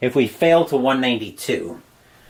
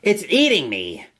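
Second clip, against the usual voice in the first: higher, faintly haggard cry; a mild performed plea from far away; 5 semitones higher than usual. A narrator's reading. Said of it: "made in a haggard voice".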